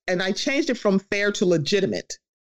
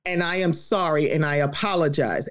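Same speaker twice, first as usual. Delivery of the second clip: lower-pitched, measured imitation of apologizing; retold sincere apology; 5 semitones lower than usual. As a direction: voice someone owning up, evenly. Voicing a sincere public apology.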